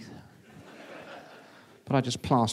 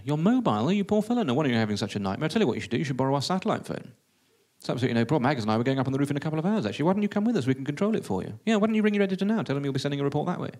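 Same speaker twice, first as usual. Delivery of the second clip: lightly voiced eager producer; swooping, sympathetic offers of help; Peter Baxter; 2 semitones higher, faster than usual. Producer offers his satellite phone, lightly voiced and eager. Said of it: "Peter Baxter, the radio producer".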